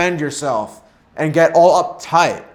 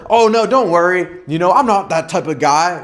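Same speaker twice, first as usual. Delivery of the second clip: reactive tone. Shown as a demonstration. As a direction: plead your innocence nervously. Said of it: "a more reactive tone like".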